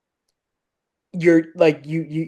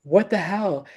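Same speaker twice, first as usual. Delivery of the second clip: incredulous, breaking into a laugh; half-laughing what the hell; amused outrage; laughing disbelief; 3 semitones higher, 4 dB quieter than usual. Retold or imitated. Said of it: "And I'm like".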